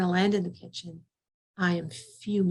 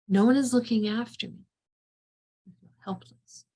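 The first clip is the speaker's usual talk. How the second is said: put-on childlike; 3 semitones higher than usual. Shown as a demonstration. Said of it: "the childlike quality to that".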